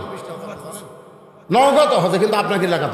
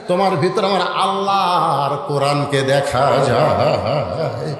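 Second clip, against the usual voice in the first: melodic preaching; 2 semitones lower than usual. Acted. Preacher voices Omar embracing the shepherd, melodic preaching. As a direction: chant the endings, then drive the lesson home.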